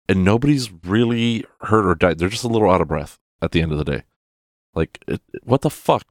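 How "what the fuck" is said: high-pitched disbelief; what the fuck, pitched way up; incredulous. Real, not acted. Incredulous outburst at movie.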